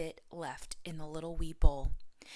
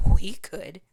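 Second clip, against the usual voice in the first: eager reply; 16 dB louder than usual. A narrator's reading. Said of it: "they said".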